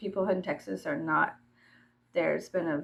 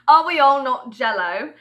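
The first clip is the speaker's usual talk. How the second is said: loud, higher mock-rhetorical question; hammed-up loud question; 5 semitones higher, 11 dB louder than usual. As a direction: belt out the question in play. Repeats the question, hammed up louder.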